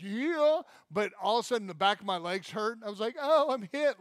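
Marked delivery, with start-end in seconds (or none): 0.0-0.6 high, loud little cheer; excited whoop. Retold or imitated. Bomb finally goes off. 3.2-4.0 high, loud yelp; hammed-up wounded yelp; mock cry of pain. Legs hurt after explosion.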